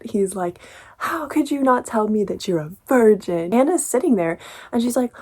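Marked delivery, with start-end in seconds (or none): 1.0-3.5 mildly indignant retold reproach; mock upset. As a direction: act out a mild, exasperated scolding. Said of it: "like, really upset".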